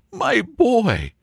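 high, effusive exclamation; joyful cry. Acted. Baronet embraces Wilfred's offer, high delighted cry. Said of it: "cried the baronet".

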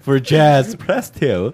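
mock automated menu prompt; phone menu voice. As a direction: announce it like a recording.

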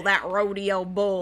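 slow put-on cowboy drawl; mock cowboy. Cowboy names the rodeo bull, mock drawl. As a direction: drag it out like a rodeo hand.

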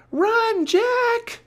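very high, loud warning yell; shouted. A narrator's reading. Annie warns Jack of landing pirates, shout. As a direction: yell for his life. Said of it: "shouted Annie".

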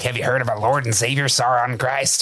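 low, solemn door-to-door preacher; preachy missionary. Retold or imitated. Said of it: "And he says, like".

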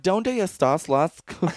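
put-on southern accent Spanish. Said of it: "most southern gay accent".

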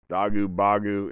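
"dogu, bogu" ending in oo. Shown as a demonstration. Showing another vowel option, oo endings. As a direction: end both "dogu" and "bogu" on oo. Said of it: "put any sort of vowel sound on there".

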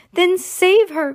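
high, loud, drawn-out plea; hammed-up cry for rescue, stretched slow; desperate cry. A narrator's reading. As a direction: wail it like a storybook mother. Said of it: "cried Missus Salt".

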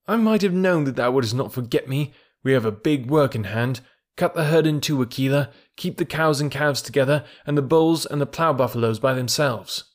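brief the wolf with quick command; young leader, keen and urgent; lightly voiced Mowgli. Mowgli gives orders.

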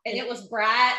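Southern flat long-I on bright; hammed-up Southern vowel; Southern drawl. Finishing the teasing rhyme, Southern drawl. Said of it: "everything with my's and I's and".

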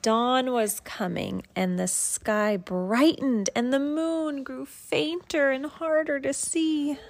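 gentle bedtime story read; reading to a child. Acted. Parent reads picture book aloud.

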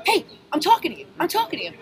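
high loud yell, demanding attention; shout. Retold or imitated. Bartender yells up at a Marine, high loud shout. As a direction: call him out hard, no backing down. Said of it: "And I'm just like".

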